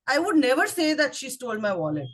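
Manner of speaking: NEVER punched, the rest running on quickly; stress on never. Shown as a demonstration. Explaining the meaning to the club, stress on never. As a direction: hit never, then hurry through the rest. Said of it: "if I stress on the word never".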